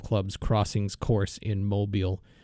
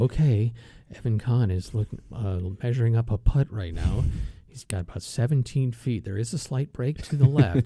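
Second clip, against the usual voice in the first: hushed golf radio play-by-play; golf commentator. Retold or imitated. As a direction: call the putt like a radio golf announcer. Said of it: "You ever heard golf on the radio".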